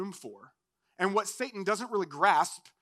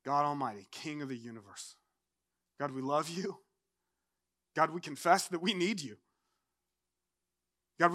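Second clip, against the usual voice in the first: earnest prayer. Real, not acted. Pastor interceding for families, church and nation, earnest prayer. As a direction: pray aloud in measured, pleading phrases.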